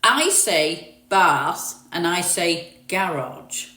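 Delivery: slow southern English "bath" with a long "ah" and "garage"; southern pronunciation. Shown as a demonstration. London girl showing viewers her southern vowels. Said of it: "that I am not northern".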